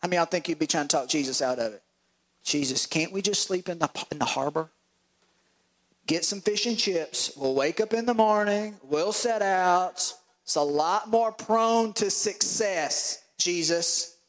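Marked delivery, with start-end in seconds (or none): 2.4-14.2 pleading disciples. Acted. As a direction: wheedle Jesus into staying in port. Disciples bargain with Jesus.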